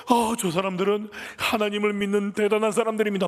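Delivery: high, droning proclamation; possessed girl's clamour. Acted. Possessed girl pestering Paul as he preaches, clamouring. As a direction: chant it out on one high note. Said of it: "막 떠드니까".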